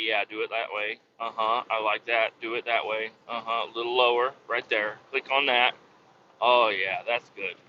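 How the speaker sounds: low, hushed mock approval; lightly voiced man murmuring instructions; imitating man directing. Retold man directing the clerk's clicking.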